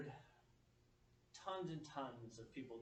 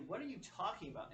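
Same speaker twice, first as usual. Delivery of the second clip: put-on higher, puzzled parent to child; retold mild exasperation; 7 semitones higher, 3 dB louder than usual. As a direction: ask with a touch of exasperation. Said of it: "I'm starting to get irritated".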